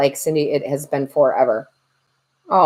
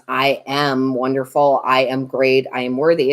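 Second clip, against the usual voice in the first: mock affirmation voice; 4 semitones lower than usual. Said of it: "it's not gonna be affirmations".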